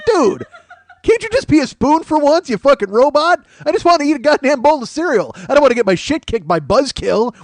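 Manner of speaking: exasperated yell at a robot spoon. Pretend. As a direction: shout at the spoon that just punched you. Yelling at transforming spoon robot.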